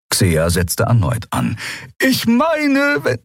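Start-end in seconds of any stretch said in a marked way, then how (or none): 2.0-3.2 very high, tentative voice; timid peacemaker. A narrator's reading. Healer Xea trying once more, high and interrupted. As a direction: start high, get cut off. Healer tries again, gets cut off.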